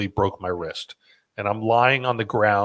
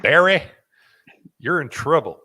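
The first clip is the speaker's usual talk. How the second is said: put-on camp director's accent, higher and louder; 5 semitones higher, 5 dB louder than usual. Showing off the camp director impression, put-on accent. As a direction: imitate the director calling out a culprit. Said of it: "That's a great accent".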